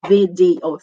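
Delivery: "Video" as vi-dee-o; careful English "Video"; three syllables. Shown as a demonstration. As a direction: sound every syllable of "Video". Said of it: "Three syllables".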